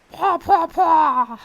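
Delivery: high, loud squawking paw; Kazooie impression. Shown as a demonstration. Showing chat Kazooie, a high loud squawk. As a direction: squawk it like a cartoon bird. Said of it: "That's the Kazooie impression".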